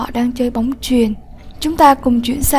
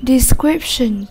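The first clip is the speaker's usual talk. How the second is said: "Description" with the stress on "scrip"; second-syllable stress. Shown as a demonstration. Teacher models "Description" for the class, stressing its second syllable. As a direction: lean on the middle syllable of "Description". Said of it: "Nhấn âm tiết số hai".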